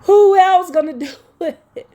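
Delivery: high, anguished tearful question; tearful cry. Real, not acted. I don't mean to cry.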